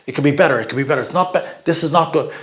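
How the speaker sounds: light mock nagging, a bit quick; lightly voiced fault-finding parent; critical inner voice. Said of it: "it's all this critical".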